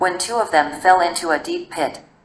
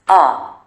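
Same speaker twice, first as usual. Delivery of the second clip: scream; 4 dB louder than usual. A narrator's reading. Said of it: "hurts himself and screams".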